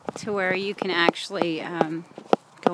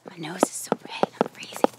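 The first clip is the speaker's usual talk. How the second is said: whisper; 2 semitones lower than usual. Real, not acted. Out in the cold.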